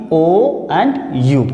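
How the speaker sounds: drawn-out O and U; slow vowel sounds. Shown as a demonstration. Teacher showing the single sounds, stretched slowly. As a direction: hold each vowel long for the class. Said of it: "इनको हम single sound से बोलते हैं".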